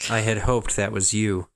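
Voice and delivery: disapproving tone. Acted. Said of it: "my disapproving voice".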